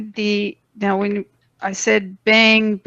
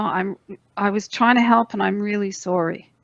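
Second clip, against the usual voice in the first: gentle sorry; faster than usual. Shown as a demonstration. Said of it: "you know".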